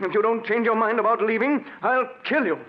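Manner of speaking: high, tense threat to kill; desperate threat. Acted. Husband threatens wife with a gun, tense and high. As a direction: threaten her, voice straining.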